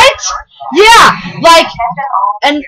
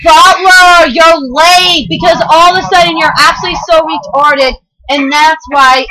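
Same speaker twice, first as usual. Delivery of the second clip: angry scolding; 3 semitones higher than usual. Acted. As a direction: scold him for being late. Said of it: "Tom was like".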